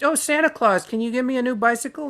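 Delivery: put-on high, fast begging kid voice; mock childish plea. Mocking someone asking magic for presents, in a high childish plea. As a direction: whine it up like a kid asking Santa. Mock wish list to Santa.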